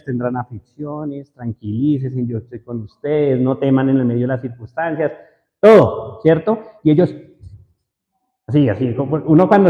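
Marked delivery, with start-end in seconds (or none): 0.0-5.1 calm the frightened ones gently; reassuring. Retold or imitated. Jesus reassures his disciples, soft and calm. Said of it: "se los decía a ellos".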